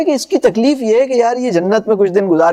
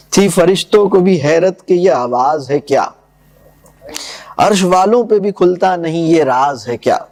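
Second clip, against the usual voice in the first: poem recitation; 2 semitones lower than usual. Acted. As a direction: recite the couplets with gravity. Recites Iqbal's verse. (شاعرانہ انداز میں پڑھت)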